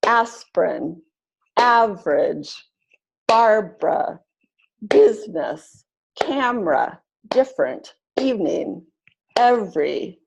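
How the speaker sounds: word list with middle vowels dropped, aspirin as ASP-rin; each word alone in two beats, general as GEN-rul; two-syllable pronunciation. Shown as a demonstration. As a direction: drop the middle syllable: average as AV-rij, interest as IN-trest. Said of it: "pronounced with only two syllables".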